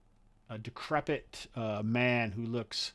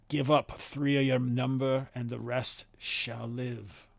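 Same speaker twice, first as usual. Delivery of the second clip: commanding emissary; 6 dB louder than usual. Acted. GM voices the NPC.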